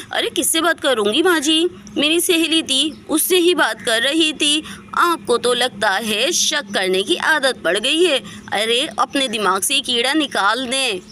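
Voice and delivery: defiant retort. Acted. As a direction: snap back at the mother-in-law. Bahu snapping back at mother-in-law. (सास को तुनककर जवाब देती बहू, ऊँची तेज़ आवाज़)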